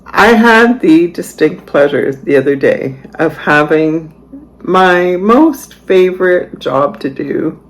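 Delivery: dry sarcasm, drawing out the favorite part; sarcastic. Real, not acted. Woman telling viewers about cleaning her fridge, sarcastic. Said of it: "Can you just detect the sarcasm?".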